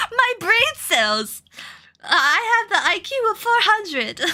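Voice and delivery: slow, laughing snooty aristocrat; posh voice. Acted. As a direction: gloat through laughter, very posh. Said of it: "I'm going to give her a posh voice".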